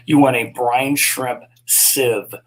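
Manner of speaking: slow, deliberate line landing on SIEVE; emphasis on SIEVE. Real, not acted. Streamer correcting the choice of a net, stressing SIEVE. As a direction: spell out the advice slowly, weight on "sieve". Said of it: "cannot emphasize the word sieve enough".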